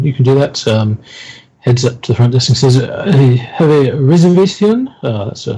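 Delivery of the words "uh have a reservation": half-hearted attempt at a French accent, lilting upward; bad French accent. Game master voicing a guest checking in, bad French accent. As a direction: put on a poor French accent. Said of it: "that's a shit French accent".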